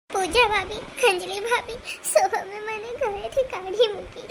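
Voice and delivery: words pushed out through tears; tearful, telling them her husband threw her out; crying. Acted. Shreya crying to her sisters-in-law about her husband. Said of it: "કેમ રડો છો?".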